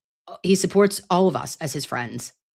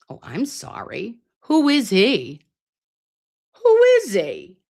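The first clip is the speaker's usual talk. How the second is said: gushing awe; 6 semitones higher, slower than usual. Real, not acted. Fan gushing about Maza's confidence, building excitement. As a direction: swoon over him.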